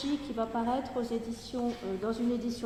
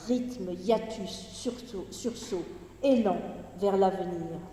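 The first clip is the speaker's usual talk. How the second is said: energetic poetry recitation; 4 dB louder than usual. Acted. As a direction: declaim it phrase by phrase, with short breaks. Reads an energetic poem.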